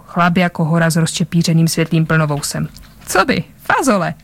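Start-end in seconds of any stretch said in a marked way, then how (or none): 3.1-4.1 casually calm, pitch lifting then falling; calm reply. A narrator's reading. Bzuk answers the big man's roar, calmly. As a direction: answer lightly, quite untroubled. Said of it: "řekl klidně Bzuk".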